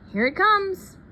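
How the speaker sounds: dad shouting to his family as the plane lands; excited shout. A narrator's reading. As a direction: call out at the arriving plane. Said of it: "then he shouts".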